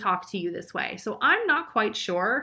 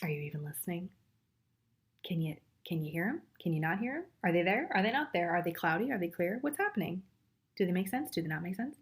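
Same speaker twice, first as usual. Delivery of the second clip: nagging dragonfly; 4 semitones lower, 6 dB quieter, faster than usual. Retold or imitated. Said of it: "Dragonfly says".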